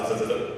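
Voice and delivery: repeated buzzing of a phone; imitated phone buzz. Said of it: "my phone goes off".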